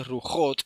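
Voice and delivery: "Rujot" with a throaty kh in the middle; correct Het pronunciation. Shown as a demonstration. Teacher showing where Het belongs, "Rujot" with rasped kh. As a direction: say "Rujot" slowly as "Rukhot". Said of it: "ese sí".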